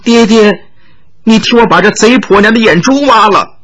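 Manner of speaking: high whiny coaxing plea; coaxing girl. Acted. Tearful daughter whines to her father for revenge, high. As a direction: wheedle like a spoiled daughter, pitched high. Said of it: "撒娇叫道".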